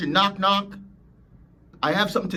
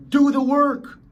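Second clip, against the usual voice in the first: much louder, higher yelled command; full shout; 10 semitones higher, 8 dB louder, slower than usual. Real, not acted. Coach yelling at the excuse maker to work. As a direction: blast the order at them. Coach urging listeners to act.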